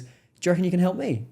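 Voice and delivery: fast, high-pitched Cockney imitation; lightly voiced Cockney, quick and high; Cockney Dave. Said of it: "I call him Cockney Dave".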